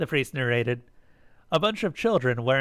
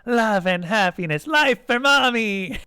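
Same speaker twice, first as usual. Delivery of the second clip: put-on high, gleeful children's cheer; excited little creatures cheering; yelling; 8 semitones higher, 5 dB louder than usual. A narrator's reading. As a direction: shout it, climbing higher. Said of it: "the Azatoths yelled".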